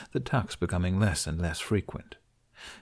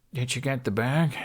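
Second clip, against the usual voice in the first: half-asleep question; sleepy, yawning; 4 semitones higher than usual. Acted. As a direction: ask through a coming yawn. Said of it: "before a yawn overtook his mouth".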